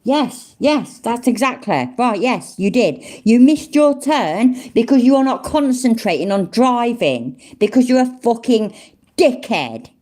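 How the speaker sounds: exasperated scolding. Real, not acted. Scolding the clip driver's admission.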